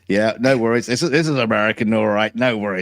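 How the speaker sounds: a hint of a cowboy clerk; Texas accent. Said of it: "a big hat and a Texas accent".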